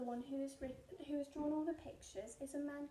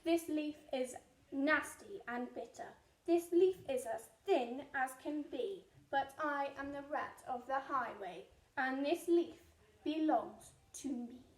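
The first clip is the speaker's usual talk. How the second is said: scornful rat; 2 semitones lower, 6 dB louder than usual. Acted.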